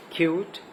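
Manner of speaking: کیوٹ with a long "you" vowel. Shown as a demonstration. Teacher showing the long vowel sound, long "you" in کیوٹ. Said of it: "long وال sound آئے گی".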